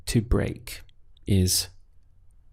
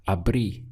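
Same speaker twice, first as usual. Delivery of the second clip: "abrí" with the stress on its last syllable; stress on final í. Shown as a demonstration. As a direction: land on the "í" at the end of "abrí". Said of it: "your pronunciation reflects that accent".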